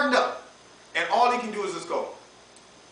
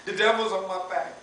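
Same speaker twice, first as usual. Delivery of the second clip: hammed-up teen complaining; a hint of a sulky teenager; whiny young person; 2 semitones lower than usual. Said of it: "he comes and be like".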